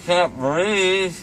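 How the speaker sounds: breathless from laughing; talking through laughter. Real, not acted. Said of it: "I'm laughing".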